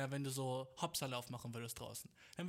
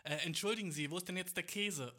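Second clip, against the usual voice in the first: calling a little louder, still polite; a bit louder; 4 semitones higher, 4 dB louder than usual. Retold or imitated. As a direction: raise the voice to be heard. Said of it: "aber ein bisschen lauter". (etwas lauter und höflich)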